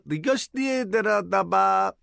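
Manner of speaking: reversed gibberish; played backwards. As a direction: talk like a rewinding tape. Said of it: "Now say that backwards".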